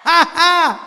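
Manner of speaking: big ringing ha ha laughs, high and loud; hearty demo laugh. Shown as a demonstration. Monk leading the hall in laughter, hearty laugh. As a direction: lead the crowd in full-throated laughter. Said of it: "Bây giờ bắt giọng nè".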